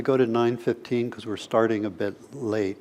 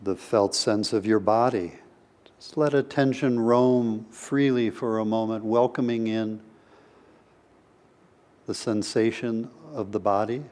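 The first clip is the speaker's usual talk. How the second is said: unhurried meditation guidance with long pauses; guided meditation. Real, not acted. Teacher opening a session with a brief meditation, guided meditation voice. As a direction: gently lead listeners inward, leaving space between phrases.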